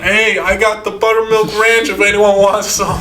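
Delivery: high-pitched mock enthusiasm; perky, high potluck offer; eager guest. Acting out eager party guest.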